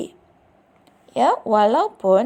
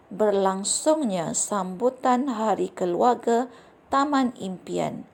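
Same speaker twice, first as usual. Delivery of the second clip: expressive reading aloud. Shown as a demonstration. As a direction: read the story to the class with clear pronunciation and fitting intonation. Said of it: "kamu perlu mendengar cikgu membaca petikan ini". (bacaan contoh yang ekspresif dengan intonasi sesuai)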